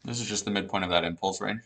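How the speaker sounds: talking through a mouthful of food; words round a bite of food; mouth full. Real, not acted. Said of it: "talking with my mouth full".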